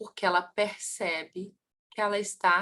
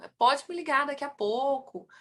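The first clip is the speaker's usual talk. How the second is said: acted courteous reply, higher-pitched; very polite; 5 semitones higher than usual. Curitiba client putting off a phone caller, very polite. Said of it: "a pessoa muito educada".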